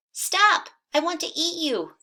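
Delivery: high, loud hungry cow; cried out. Acted. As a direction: call out like a greedy cow. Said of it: "the cow cried".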